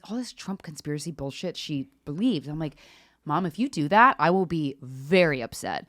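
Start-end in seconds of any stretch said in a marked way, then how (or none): 3.2-5.9 stern warning. Retold or imitated. Daughter warning her mom not to visit, stern and measured. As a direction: lay down a firm boundary.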